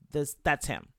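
usual speaking voice

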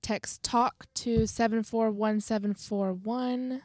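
best Southern voice for a hotline read; measured Southern-accented announcement; put-on Southern accent. Co-host reading crisis lines on request, Southern accent. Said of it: "in your best Southern voice".

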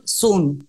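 sun imitated with an "oo" vowel; Irish pronunciation. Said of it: "La primera vez que me dijeron sol". (sun dicho con U, a la irlandesa)

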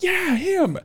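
high blunt confirmation; imitating her. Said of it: "she was like".

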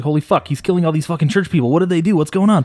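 climbing, increasingly alarmed questions; retold bewilderment. Host relives first watching the church scene, bewildered.

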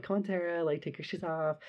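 patient, lilting nice voice; super nice coaxing. Retold or imitated. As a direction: gently talk a drunk friend into it. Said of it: "I'm still being super nice".

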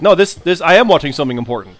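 emphatic, mildly hammed-up seriousness; lightly mimicked self-important earnestness; earnest announcer tone. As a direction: imitate a commentator who insists this matters. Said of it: "he just has that tone".

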